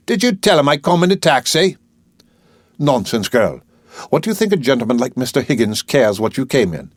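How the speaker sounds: put-on a proud girl standing her ground; a hint of saucy indignation; flower girl voice. Flower girl speaks in a play reading.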